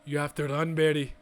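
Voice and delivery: rough go at a put-on accent; wobbly, inconsistent character accent; John Constantine accent. Constantine telling Barry to run, loose put-on accent. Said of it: "I don't know why I'm giving that accent".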